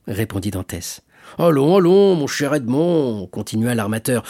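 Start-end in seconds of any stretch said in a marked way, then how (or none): 1.4-3.3 loud, jovial "allons, allons"; hearty urging. Acted. Shipowner to his dear Edmond, hearty urging. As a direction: cheerily shoo a friend along.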